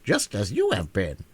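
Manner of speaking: lightly voiced hen, wry; a dry little joke. Hen joking about the enchanted children, lightly wry. Billina explains.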